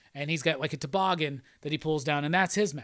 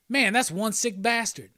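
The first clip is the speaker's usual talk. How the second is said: higher, slow mock remark; hero's reaction; 5 semitones higher than usual. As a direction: draw it out higher, acting the onlooker. Hero remarks on sneezing passerby.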